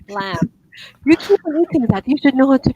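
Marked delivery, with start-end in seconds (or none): 0.1-0.5 "Lamb" ending on M, no B; silent B. Shown as a demonstration. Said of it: "No B sound".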